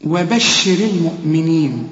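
وبشر المؤمنين recited with every letter thin. Shown as a demonstration. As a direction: recite وبشر المؤمنين keeping the whole word light. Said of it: "كل الكلمة مرققة".

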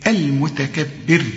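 المتكبر ending in a thin R; light pausal ra. Shown as a demonstration. Teacher shows stopping, light ر in المتكبر. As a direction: stop slowly on المتكبر with a light final ر. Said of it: "ترققها".

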